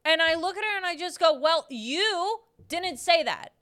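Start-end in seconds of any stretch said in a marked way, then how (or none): 1.4-3.5 deadpan retort. Retold or imitated. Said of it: "Just like that".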